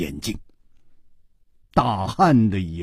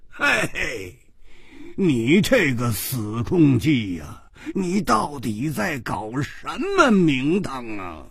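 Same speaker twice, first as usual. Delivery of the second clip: slow, mock-indignant scolding; exasperated scolding; slower than usual. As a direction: demand an explanation, half laughing. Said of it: "他大叫着说".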